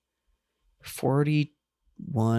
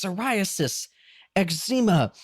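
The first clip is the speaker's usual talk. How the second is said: ailments listed in a raised pitch; Dr. Amp; 5 semitones higher than usual. Acted. Podcaster imitating the host listing ailments, theatrical. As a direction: declaim each ailment like a ranting crank. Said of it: "he's going off about".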